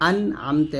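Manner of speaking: "আন, আমতে" with a short distinct n; no nasal hold on the n of "আন"; clear n. Shown as a demonstration. Teacher explaining to learners, "আমতে" said without ghunnah. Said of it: "স্পষ্ট হবে".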